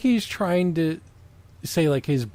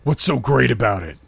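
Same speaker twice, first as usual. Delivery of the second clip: voiced question; 3 semitones lower than usual. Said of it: "he asked".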